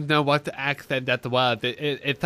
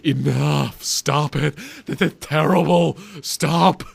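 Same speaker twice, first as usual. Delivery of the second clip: mock director cutting in, louder toward the end; imagined voice director; 3 dB louder, slower than usual. Director cranking up his mic to halt actors, mock-exasperated. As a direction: play a fed-up director stopping bad actors. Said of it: "just had to crank up his mic".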